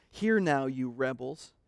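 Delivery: a touch of exasperated frustration on hear now; frustrated. Retold or imitated. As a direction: let Moses' frustration show, hitting hear. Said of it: "You can hear the frustration in his voice".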